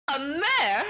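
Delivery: can't believe the insult; offended surprise. Retold or imitated. Unicorn insulted at being called a mare.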